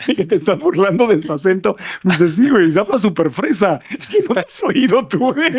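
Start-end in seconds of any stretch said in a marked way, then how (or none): 2.3-5.5 exaggerated Mexico City accent, rising higher through laughs; marked Mexico City accent. Host imitating a friend mocking her accent, exaggerated Mexico City accent. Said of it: "un amigo que tiene un acento muy marcado".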